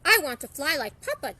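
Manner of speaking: bursting to try flying like his dad; excited. Acted. Dennis begging to fly like Papa, excited. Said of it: "Dennis said excitedly".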